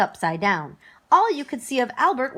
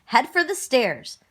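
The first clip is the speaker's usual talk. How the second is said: bossy shout; 7 semitones higher than usual. Acted. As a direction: boss the kids toward the stairs. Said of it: "the goblin shouted".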